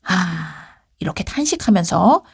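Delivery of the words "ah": sigh. Acted.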